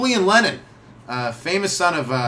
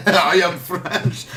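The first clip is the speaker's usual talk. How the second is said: bad French accent; 3 semitones higher, 3 dB louder, much slower than usual. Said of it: "You sound Russian to me".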